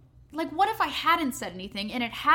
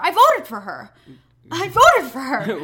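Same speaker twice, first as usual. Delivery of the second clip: louder, slow, pounding each word; emphatic disbelief; 11 dB louder, slower than usual. Shown as a demonstration. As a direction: hammer it home in disbelief. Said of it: "repeated with emphasis".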